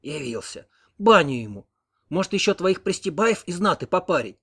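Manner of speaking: scornful, venomous retort; a touch of hissing old hag; hateful scorn. A narrator's reading. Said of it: "с ненавистью глянула".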